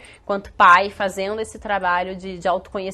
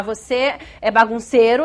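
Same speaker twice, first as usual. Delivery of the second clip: rótulo acusador; 4 dB louder than usual. Acted. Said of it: "Uma coisa é eu falar".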